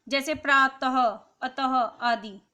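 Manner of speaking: प्रातः said slowly, ending in a breathy ह; visarga demo. Shown as a demonstration. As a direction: stretch अतः and let its end puff out like ह. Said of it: "इसका उच्चारण हा की तरह होता है". (प्रातः और अतः को धीरे, अंत में ह की तरह बोलना)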